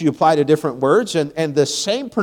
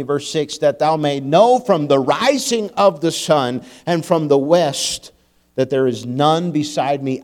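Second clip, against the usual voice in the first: scripture reading; slower than usual. Acted. Preacher reading Isaiah to congregation, solemn scripture reading. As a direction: let each phrase land slowly and reverently.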